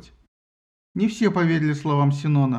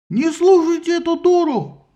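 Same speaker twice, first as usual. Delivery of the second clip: much higher, louder, slow yell; 12 semitones higher, 6 dB louder than usual. A narrator's reading. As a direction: roar down the crowd. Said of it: "заорал Синон". (яростный ор)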